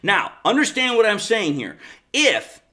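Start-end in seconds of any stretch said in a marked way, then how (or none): 2.1-2.6 If hit with heavy emphasis, a touch higher; stress on if. Shown as a demonstration. Football vlogger flags the big condition, heavy stress on If. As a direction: lean hard on If and hold it. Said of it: "heavy emphasis on that word".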